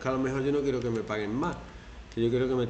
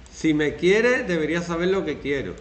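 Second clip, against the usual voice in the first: reproachful partner; 6 semitones higher, 6 dB louder than usual. Retold or imitated. Manipulative partner quote.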